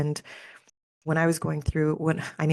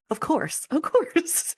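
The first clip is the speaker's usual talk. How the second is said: delighted realization; 11 semitones higher, much slower than usual. Real, not acted. Realization about the healer's words.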